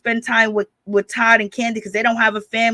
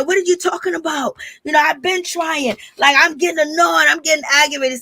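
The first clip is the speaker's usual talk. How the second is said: mildly exasperated retort, pitched higher; Candy; 4 semitones higher than usual. Retold or imitated. Candy defends herself to Marlo, mock exasperated. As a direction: imitate someone getting fed up. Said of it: "Candy's all mad and upset".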